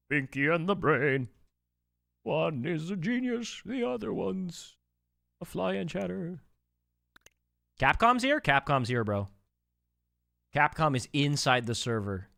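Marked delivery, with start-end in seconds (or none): 0.1-6.4 a slow, dopey hint of a cartoon mouse; Pinky impression. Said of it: "you could do an amazing Pinky". 7.8-8.4 "Capcom's here?" jumped high and louder with a rising end; can't believe it, ask it sharply; surprised. Real, not acted. Capcom joins the server.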